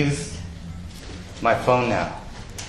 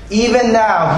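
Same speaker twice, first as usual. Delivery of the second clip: emphatic; 9 semitones higher, 4 dB louder, slower than usual. Real, not acted. Preacher's emphatic rise.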